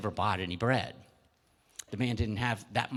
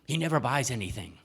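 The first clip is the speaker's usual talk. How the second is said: indignant baker; 4 semitones higher, 3 dB louder than usual. Acted. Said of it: "the baker's saying".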